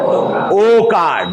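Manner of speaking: ओ held very slowly and long; slow demo of ओ; drawn-out ओ. Shown as a demonstration. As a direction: stretch ओ to show the sound. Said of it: "किसका उच्चारण देता है".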